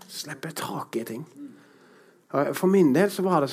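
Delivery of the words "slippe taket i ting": whispered. Real, not acted. Soft closing repeat.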